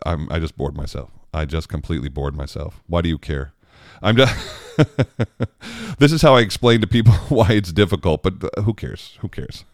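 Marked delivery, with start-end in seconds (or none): 4.0-8.2 self-mocking, laughing through the words; laughing at himself. Real, not acted. Singer laughing at his own dull explanation, giggling. 9.2-9.6 "Who cares?" dropped much softer, nearly under breath; muttered aside. Real, not acted. Singer shrugging off his own rambling, muttered softly.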